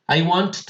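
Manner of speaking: WANT with an extra T stuttered on, "want-t"; doubled T. Shown as a demonstration. Teacher shows the impossible past tense, WANT ending "t-t". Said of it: "cómo le vas a ponerle sonido de T a una T".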